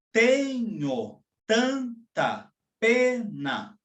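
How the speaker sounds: very slow, "Tenho tanta pena" strong-weak; scanning the verse. Shown as a demonstration. Teacher showing descending binary meter, slow and stressed. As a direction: pound the falling beat, syllable by syllable. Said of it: "como neste verso de Fernando Pessoa".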